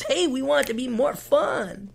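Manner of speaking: mock manager. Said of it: "management fuck says".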